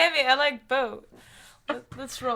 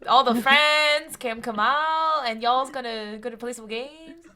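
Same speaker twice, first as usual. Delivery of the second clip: Texan accent. Shown as a demonstration. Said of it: "A Texan accent?".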